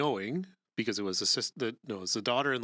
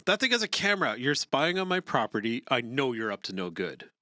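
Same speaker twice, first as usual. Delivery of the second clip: suspicious neighbor; 3 semitones higher, 4 dB louder than usual. Acted. Reading agitated neighbor's lines.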